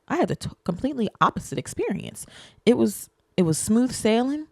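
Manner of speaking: high, mocking take on dad bragging; smug dad. Dad rubbing his easy trip in her face, high mock voice. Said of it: "then he rubs in my face".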